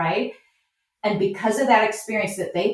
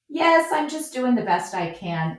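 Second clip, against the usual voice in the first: gracious reply, pitched a little higher; graceful response; 5 semitones higher than usual. Shown as a demonstration. Farmer answering a comment about unpicked sunflowers, gracefully. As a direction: agree lightly and disarm the critic. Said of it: "come back with a very graceful response".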